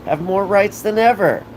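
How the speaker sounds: high, rising shouted rant; heated rant. Real, not acted. Ranting to viewers about women's rights, high and heated. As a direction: climb into a shout.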